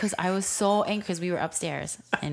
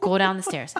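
louder, firmer retold order; mad command; 3 semitones higher, 7 dB louder than usual. Dad sending his child downstairs, louder and mad. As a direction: repeat the order with rising anger. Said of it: "then I got really, really mad".

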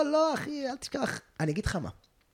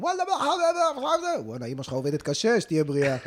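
Arab worker impression; 6 semitones higher than usual. Builders calling out about Danny's mother, in an Arab accent. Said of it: "יש פה פועלים ערבים".

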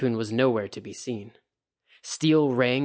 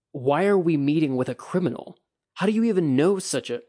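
surprised; 5 semitones higher, 5 dB louder than usual. A narrator's reading. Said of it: "Toturi blinked".

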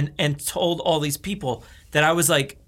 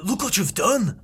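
Sean Connery; 2 semitones higher than usual. Acted. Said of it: "Sean Connery".

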